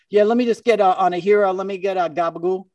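lightly imitating a Jersey Italian guy ordering lunch; Jersey Italian guy accent. Deli customer orders from the Italian woman, mock Jersey Italian accent. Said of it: "a Jersey, you know, Italian kind of New York Italian guy".

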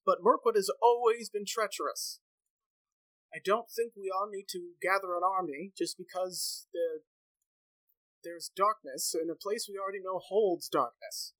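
lightly voiced elder Ingomer. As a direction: sound like a wary elder doubting the warning.

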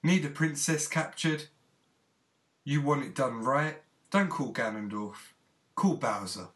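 punchy mock ad pitch; parody advert. Host pitches villain hire in a spoof, parody advert. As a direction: read it like a commercial, key words punched.

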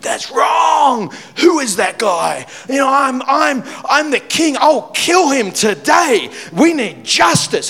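hammed-up fury of a wronged king; furious king. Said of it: "David is furious. He's livid".

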